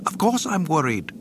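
high, fussy robot voice; fussy droid. A narrator's reading. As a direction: fret like a nervous butler droid. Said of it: "C three P O fussed".

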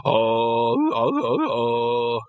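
chest-pounding ape grunts; hooting ape roar, rising in the middle; triumphant orangutan hoots. A narrator's reading. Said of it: "pounded his chest and roared".

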